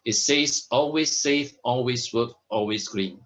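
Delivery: salesman hammering home "always"; stress on always. Shown as a demonstration. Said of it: "I like to emphasize on the word always".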